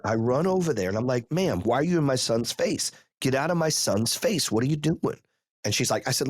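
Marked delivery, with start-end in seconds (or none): 1.3-5.2 higher-pitched indignant confrontation; retold losing it. Dad confronts a mom in his son's face, indignant. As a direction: confront her in retold anger, without shouting. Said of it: "I fucking lost it".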